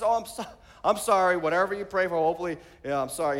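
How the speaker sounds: mock sheepish husband, voice dropping away; classic apologetic husband. Husband apologizes after accusing praying wife, sheepish backpedalling. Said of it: "that's classic husband".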